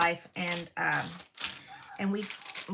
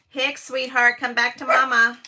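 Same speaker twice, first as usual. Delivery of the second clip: loud, higher call across the house; calling out to dog; 4 semitones higher, 10 dB louder than usual. Real, not acted. Owner calling her barking dog Hicks back, loud.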